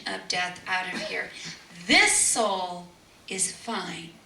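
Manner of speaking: slow, firm, authoritative; commanding. Retold or imitated. Mother ordering the family out, slow and commanding. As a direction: send them out with authority.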